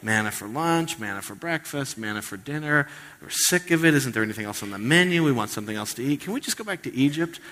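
mock whiny complaint, pitch jumping up; hammed-up grumbling about the menu; whining Israelites. Pastor voicing Israelites sick of manna, mock whine. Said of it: "They're like".

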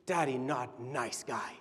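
put-on slow, soft little-kid voice; a lightly voiced toddler telling dad off; small sad toddler. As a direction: murmur it like a hurt toddler. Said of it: "she's barely talking".

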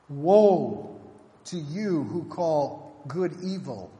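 loud, declaiming woes; prophetic woes. Retold or imitated. Isaiah pronouncing woes on the wicked, loud declaiming. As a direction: thunder each woe at them.

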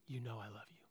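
hushed, low, near-whispered confession; repentant. Acted. Peter's repentant heart answering Jesus, hushed and low. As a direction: barely voice it, humbly and low. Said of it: "what does Peter's repentant heart say?".

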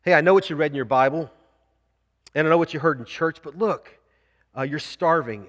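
a mild impression of Satan whispering doubt; tempting devil. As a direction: sneer the temptation at them. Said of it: "Let me give you an example".

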